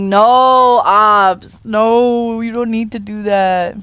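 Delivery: loud, sharp no at the cat; scolding the cat off the keyboard, loud. Real, not acted. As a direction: stop the cat typing, loudly.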